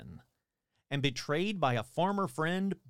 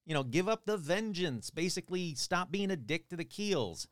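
higher-pitched, casual pleading; mock coaxing in an easy, raised voice; casual mock plea; 4 semitones higher than usual. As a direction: talk him into leaving, half-joking. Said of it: "he kinda pleads to Charles".

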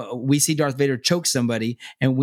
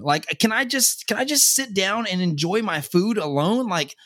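put-on fed-up kid; 6 semitones higher than usual. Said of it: "she was like".

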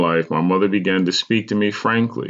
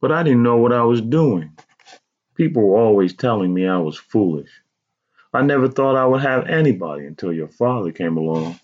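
higher-pitched mother justifying herself; insistent; 5 semitones higher than usual. A narrator's reading. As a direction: plead your case in a raised pitch. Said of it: "she insisted".

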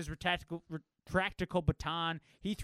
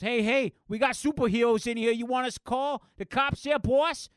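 calling out; 6 semitones higher, 8 dB louder than usual. Acted. Goon calls to his boss.

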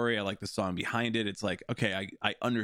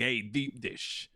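put-on Chicago accent; 3 semitones higher, much slower than usual. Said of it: "Chicago accent".

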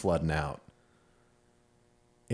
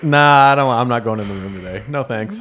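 firm refusal; 2 semitones higher, 11 dB louder than usual. Retold or imitated. Retelling refusing the therapist.

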